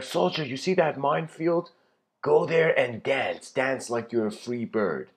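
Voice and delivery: commanding. Acted. General sending soldier to the minefield, commanding.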